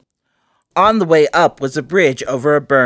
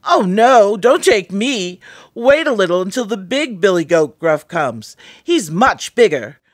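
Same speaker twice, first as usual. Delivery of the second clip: pleading goat voice; 4 semitones higher, 3 dB louder than usual. Acted.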